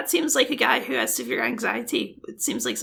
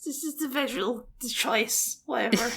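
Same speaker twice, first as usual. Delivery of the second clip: defeated; 5 dB quieter than usual. Real, not acted. Sighing to the co-host, worn out and defeated. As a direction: let it sag like you've given up. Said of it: "You sound so defeated".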